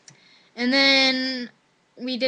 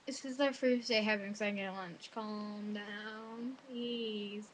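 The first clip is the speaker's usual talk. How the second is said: muted protest; 2 semitones lower, 11 dB quieter, much slower than usual. Retold or imitated. Students react to the officer's warning, muted protest. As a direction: plead quietly, keeping it out of earshot.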